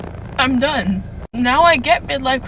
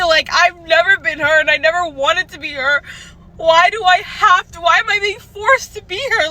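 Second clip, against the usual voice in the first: tearful. Real, not acted. Crying about forced routine.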